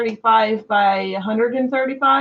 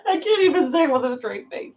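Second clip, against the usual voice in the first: giggling hard; speaking through laughter; laughing; 4 dB quieter than usual. Real, not acted. Cracking up.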